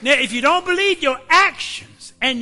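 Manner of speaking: preaching at full force. Real, not acted. Preacher shouting to worried believers that God is in control. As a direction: lift it to a full-throated climax.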